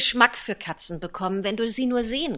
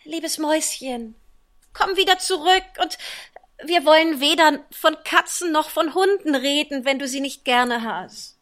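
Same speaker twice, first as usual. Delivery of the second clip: tender call; 5 semitones higher, 6 dB louder than usual. Acted. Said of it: "Sie rief ihr daher zärtlich nach".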